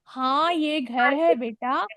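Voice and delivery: put-on a gentle mother answering her child; slow, gentle mom reply; mother's answer. Shown as a demonstration. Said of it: "आप मम्मा बन गए तो".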